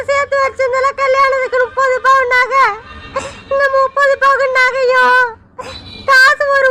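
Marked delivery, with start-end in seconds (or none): 6.1-6.7 voice breaking. Acted. Mother discovers missing money.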